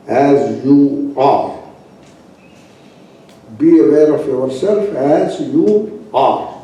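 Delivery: slow, gentle repeat; slow and calm. Shown as a demonstration. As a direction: let it settle slowly.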